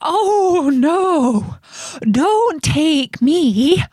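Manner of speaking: high, drawn-out billy goat plea; pleading goat. A narrator's reading. Second goat begs troll not to take him, high pleading.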